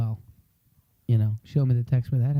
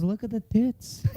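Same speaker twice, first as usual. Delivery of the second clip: higher, drawn-out insistence; mock insistence; 6 semitones higher than usual. Imitating dad arguing over a painting, mock insistence. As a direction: draw it out as an imitated crank.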